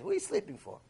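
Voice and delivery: a high, sharp angel asking why he sleeps; shrill-free high challenge, demanding; high accusing angel. Acted.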